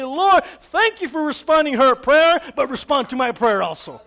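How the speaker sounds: loud, high, slowed call of thanks; fervent thankful prayer. Acted. Believer to God with changed attitude, thanking fervently. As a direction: pray out boldly, easing down at the end. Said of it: "change our attitude around and say".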